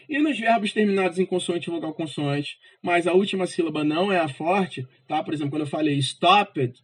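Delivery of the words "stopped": "stopped" with a strong STOP; stress on stopped's first syllable. Shown as a demonstration. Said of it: "o top é o mais forte".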